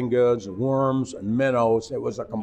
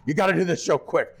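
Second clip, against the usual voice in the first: raised, urgent mock holler; higher mock shout from the control room; retold holler; 6 semitones higher than usual. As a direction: call it through the glass, hurried. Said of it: "He hollers at me".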